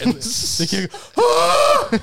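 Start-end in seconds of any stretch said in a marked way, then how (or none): 1.2-1.9 high, loud pained yelp; kid's scream. Acted. Waiter kid crying out as Billy squeezes his arm, high yelp. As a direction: shriek as your arm is crushed. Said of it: "The kid starts screaming and crying".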